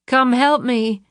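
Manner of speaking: put-on high, pleading little girl voice; mimicking a child. The speaker mocks Luann by imitating her daughter, high and childlike. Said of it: "mimicking her voice".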